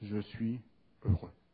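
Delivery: soft, deep, very grave and very serious tone. Describing a cartoon character's typical line, imitating a very grave, serious tone. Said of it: "avec un ton très grave, très sérieux".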